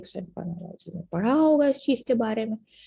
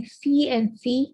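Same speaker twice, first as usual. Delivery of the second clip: slow example words; 3 semitones higher, 4 dB louder, much slower than usual. Shown as a demonstration. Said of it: "ये दो चीजें हैं".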